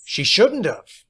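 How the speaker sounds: shouting back. A narrator's reading. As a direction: yell it back slowly. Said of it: "he shouted back".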